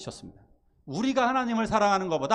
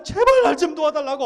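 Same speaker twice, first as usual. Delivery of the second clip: high, loud begging through mock tears; tearful loud plea; 9 semitones higher, 9 dB louder than usual. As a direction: cry out for help while clinging on. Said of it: "엉엉 울면서 매달립니다".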